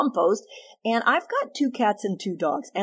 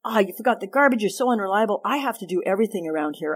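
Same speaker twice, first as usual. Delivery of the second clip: criticizing complaint; 2 semitones higher, faster than usual. Shown as a demonstration. Wife scolding husband over the garbage, fed up. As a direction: scold as if at the end of your rope. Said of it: "So I don't just say".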